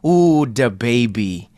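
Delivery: slow, drawn-out tease; teasing ooh. Real, not acted. Host teasing his co-host about today's guest, slow and mocking. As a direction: savour the name with mock relish.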